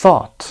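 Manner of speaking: "thought" loud, with open AW; AW as in saw. Shown as a demonstration. Teacher finishes the column for learners, open AW. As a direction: punch out "thought" with silent GH. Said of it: "صدای آ مثل saw".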